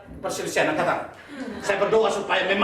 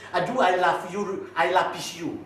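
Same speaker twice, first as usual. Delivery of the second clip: romantic; 2 semitones lower, slower than usual. Retold or imitated.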